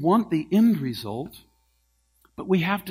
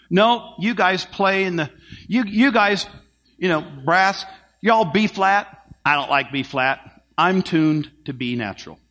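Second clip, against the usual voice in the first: defiant musician voice, a bit raised; stubborn musician; 3 semitones higher, 6 dB louder than usual. Acted. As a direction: play the stubborn horn player refusing to tune. Preacher voicing a stubborn musician.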